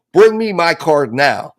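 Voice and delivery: slow, mildly demanding order. Retold or imitated. Dad's text message to his son, demanding. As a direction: read it as a slow command. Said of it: "The text messages are demanding".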